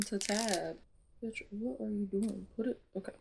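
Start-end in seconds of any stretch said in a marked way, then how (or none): 1.2-3.1 alarmed. Real, not acted. Reader fears a character will die. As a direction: drag out oh my god in shock. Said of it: "alarmed at the plot".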